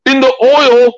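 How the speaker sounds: high, slow, drawn-out hollered caricature; Dale Lucid. Acted. Host reading viewer's question to Joe, high hollered impression. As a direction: holler it slowly in an exaggerated high put-on voice. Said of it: "I'm gonna try to do Dale Lucid here".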